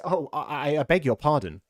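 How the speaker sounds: loud, stammering, rushed apology; girl panicking after upsetting the mouse; flustered apology. A narrator's reading. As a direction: trip over the words in alarm. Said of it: "cried Alice again".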